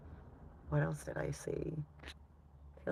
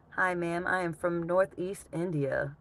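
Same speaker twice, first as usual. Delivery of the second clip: put-on light Northeast Indian accent, a bit higher; 4 semitones higher than usual. Streamer reading a viewer's message aloud in a light Northeast Indian accent. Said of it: "read it with that accent".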